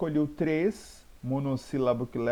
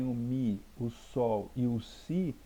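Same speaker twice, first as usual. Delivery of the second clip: "mi", "sol", "si" said without emphasis; less intensity; 3 dB quieter, slower than usual. Shown as a demonstration. Teacher contrasting weaker notes, "mi", "sol", "si" left unstressed. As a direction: let "mi", "sol" and "si" fall unforced. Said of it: "não tem a intensidade".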